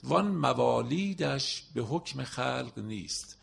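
slow, measured reading of the verse; poem recitation. Acted. Teacher reciting a Masnavi line to students, slow and measured. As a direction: lay out each word of the line slowly.

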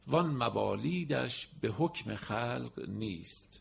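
slow, measured reading of the verse; poem recitation. Acted. Teacher reciting a Masnavi line to students, slow and measured. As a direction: lay out each word of the line slowly.

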